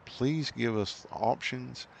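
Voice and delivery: slow, begging plea; pleading. Real, not acted. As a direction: drag it out like you're begging. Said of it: "I'm begging".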